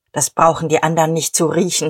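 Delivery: fast, clipped and businesslike; curt. Acted. Diederich shutting the door on the family, curt and fast. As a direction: rattle it off tersely. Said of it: "sagte er knapp".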